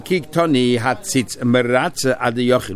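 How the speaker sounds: slow, word-by-word reading of the source line; slow text reading. Shown as a demonstration. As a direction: read the quote out slowly, weighing each word. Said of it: "five lines to the bottom".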